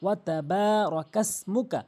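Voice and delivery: বা lengthened, then র কাস মু কা; slight stretch on বা. Shown as a demonstration. Teacher demonstrating to learners, lengthened বা. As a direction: draw out বা a little. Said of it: "বাতে গিয়ে এভাবে একটু টান দিবেন".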